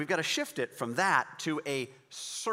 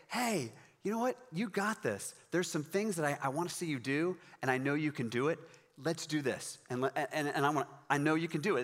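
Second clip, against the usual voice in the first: encouraging. Retold or imitated. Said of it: "very encouraging tone".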